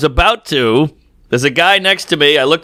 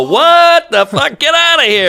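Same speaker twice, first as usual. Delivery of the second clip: outraged yell; 10 semitones higher than usual. Retold or imitated. Comic telling of shoving off a stranger, outraged yell. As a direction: blurt it out in shocked outrage. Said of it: "And I go".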